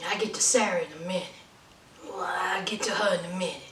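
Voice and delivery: quick hushed whisper to viewers; secretive fast whisper; whispered aside. Real, not acted. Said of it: "unvoiced whisper aside".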